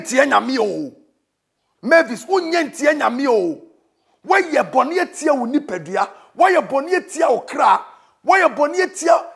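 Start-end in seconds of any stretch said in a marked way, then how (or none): 4.2-9.3 preaching shout. Acted. Preacher shouting warnings in Twi.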